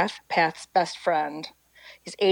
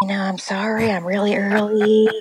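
put-on old preacher voice; 3 semitones higher, 4 dB louder than usual. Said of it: "This is how he talks".

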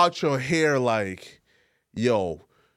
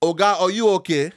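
put-on Nigerian accent; 3 semitones higher than usual. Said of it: "that's my Nigerian accent".

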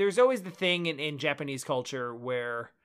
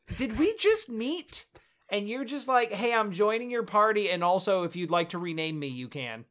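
higher, mock-baffled retort; incredulous mocking; 4 semitones higher than usual. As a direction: poke fun at the odd intro. Mocking the character's odd introduction.

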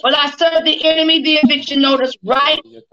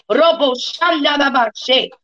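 speaking in tongues. Real, not acted.

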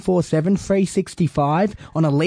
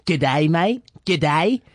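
mock broad Aussie greeting; much slower than usual. Shown as a demonstration. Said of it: "You Aussie bogan".

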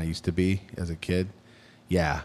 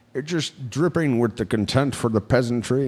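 British film villain, higher and haughty; condescending British; 4 semitones higher than usual. Acted. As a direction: drip disdain in a put-on British accent. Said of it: "condescending in that British voice".

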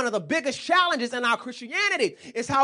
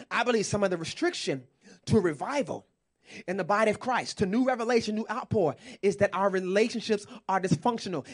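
repeated emphatically; 3 semitones lower, 3 dB quieter than usual. Shown as a demonstration. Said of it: "Let me say it again".

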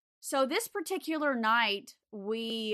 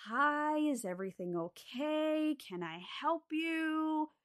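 put-on old lady waking up; 6 semitones higher, 4 dB quieter than usual. Sleepy old resident voiced.

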